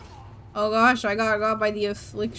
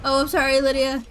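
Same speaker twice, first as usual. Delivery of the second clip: loud apology; 3 semitones higher, 5 dB louder than usual. Real, not acted. Hit companion with fireball.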